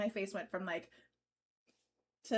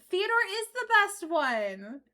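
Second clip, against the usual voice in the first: higher, slow chipmunk voice; 8 semitones higher, 6 dB louder, slower than usual. Acted. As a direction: squeak it out like a chipmunk. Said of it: "next customer gets a chipmunk voice".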